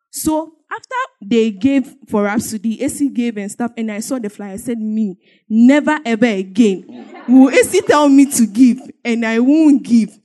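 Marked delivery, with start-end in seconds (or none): 4.8-10.2 emphatic mock resolve; determined vow. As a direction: swear it with a laugh. Vowing to give.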